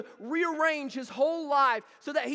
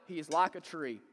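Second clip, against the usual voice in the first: like in He is like a tree lifted and leaned on; preacher demo, stress falling on like; 7 semitones lower, 4 dB quieter than usual. Shown as a demonstration. Pastor showing how to stress like. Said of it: "emphasize a different word every time".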